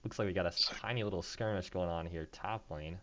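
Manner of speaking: muffled, napkin in mouth; talking with a napkin in mouth. Real, not acted. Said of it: "Sorry if my voice sounds a little muffled here".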